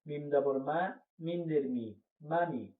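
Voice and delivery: quick short vowels in মামি, no lengthening; quick, no drawing out. Shown as a demonstration. Teacher to students, quick short-vowel reading. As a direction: read মামি briskly with no stretched vowel. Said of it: "এখানে কোনো টানা যাবে না".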